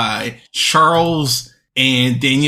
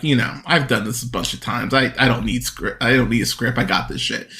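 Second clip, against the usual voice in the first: low, offhand quote; lightly imitated seen-it-all actor; Bruce Willis; 3 semitones lower, 4 dB quieter than usual. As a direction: toss it off low and soft, unbothered. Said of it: "like Bruce Willis would play a cop. He's like".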